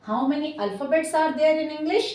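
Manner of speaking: slow, deliberate classroom question; teacher modelling an exam question slowly; slow quiz question. Shown as a demonstration. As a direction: ask it slowly so children follow. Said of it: "ज़रूर याद रखिए कि जब आपसे पूछा जाए".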